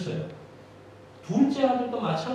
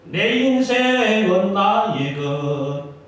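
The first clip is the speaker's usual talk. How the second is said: quoting a song; 9 dB louder, much slower than usual. Retold or imitated. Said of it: "대중가요 가수가 그렇게 노래했지".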